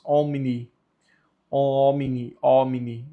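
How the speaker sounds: "omni" with a distinct m, then n; M and N both pronounced. Shown as a demonstration. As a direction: sound both consonants in "omni". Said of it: "os dois precisam ser pronunciados". ("omni" com M e N pronunciados)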